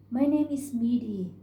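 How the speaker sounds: lightly voiced country girl; a girl announcing her name; young girl's voice. Girl introduces herself.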